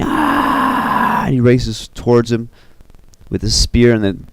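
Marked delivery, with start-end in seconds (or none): 0.0-1.2 long, voiceless mock war scream. Yasha screams as the fight starts, breathy mock scream. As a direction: imitate a distant scream on rushing breath. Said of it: "he's, like, screaming".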